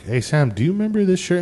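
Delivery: bursting to show her the shirt; excited retelling. Retold or imitated. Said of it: "I'm like".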